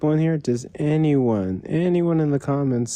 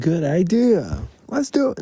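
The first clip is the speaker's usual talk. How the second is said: sarcastic; 4 semitones higher than usual. Pretend. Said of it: "No, I'm kidding".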